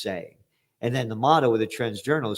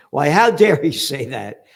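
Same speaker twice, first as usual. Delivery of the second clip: sarcastic, louder how dare he; mock outrage; 6 dB louder than usual. Host mocking Macron's critics with sarcastic outrage. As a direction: feign shock to mock the critics.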